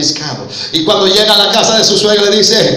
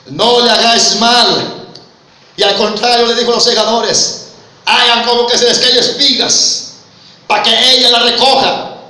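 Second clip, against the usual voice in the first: full-voiced order from the pulpit; preaching; 5 semitones higher, 3 dB louder than usual. Preacher voicing Boaz ordering his reapers, fervent preaching. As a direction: proclaim it as Boaz's command.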